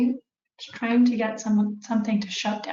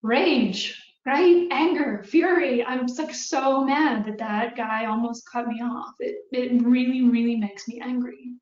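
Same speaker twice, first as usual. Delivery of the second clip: mock rage; 2 semitones higher than usual. Shown as a demonstration. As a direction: act out road rage for the class. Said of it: "For me personally".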